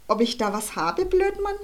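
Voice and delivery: hoch und laut angeraunzt; geraunzt. Acted. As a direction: raunz ihn wütend an. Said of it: "raunzte Schlägefred". (Schlägefred raunzt Bosco an, viel zu laut)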